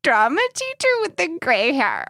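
high-pitched tipsy confession; giddy. Real, not acted. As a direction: gush it out giddily.

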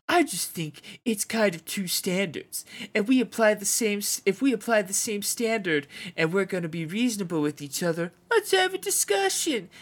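lightly voiced football coach, rising high; Jack Del Rio voice. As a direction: read it as a riled-up coach. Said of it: "give some Jack Del Rio".

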